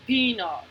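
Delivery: "peanut" with the EA as one long ee; una sola vocal. Shown as a demonstration. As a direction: stress a single ee sound in "peanut". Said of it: "la primera letra". ("peanut" con una sola i marcada)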